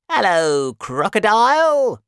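high, loud singing-out greeting; monkey calling out. Acted. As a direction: hail someone from up in a tree. Monkey calls down from tree.

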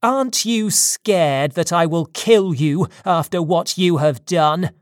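loud accusation, moderately heated; angry shout. Acted. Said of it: "I shouted".

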